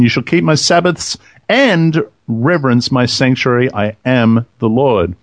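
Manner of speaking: scripture reading. Acted. Reads scripture aloud.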